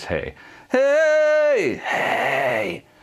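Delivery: very high, loud smoker's voice, long heys. Demonstrating the basics of distortion to viewers, smoker's voice demo. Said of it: "that's smoker's voice though".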